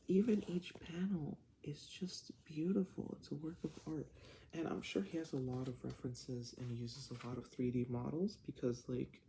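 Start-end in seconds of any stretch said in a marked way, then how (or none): 0.1-4.1 higher, breathy whispered praise; quiet at night. Real, not acted. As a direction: whisper it in awe. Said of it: "I'm kinda whispering because it's late".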